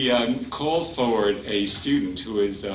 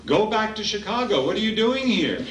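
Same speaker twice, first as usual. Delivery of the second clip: higher, laughing tease; teasing, laughing; 10 semitones higher than usual. Retold or imitated. Swami teasing the boy.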